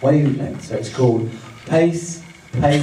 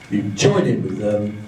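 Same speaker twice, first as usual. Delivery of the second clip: slowing down; 3 semitones lower than usual. Shown as a demonstration. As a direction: ease the pace down word by word. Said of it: "you slow it down".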